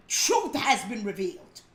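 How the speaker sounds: Truth said through a laugh; light laughing declaration; laughing proclamation. Shown as a demonstration. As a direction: chuckle as you proclaim Truth. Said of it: "Let me say it again".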